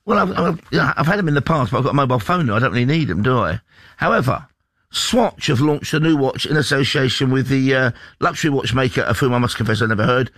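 ordinary talk

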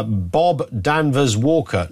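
usual speaking voice

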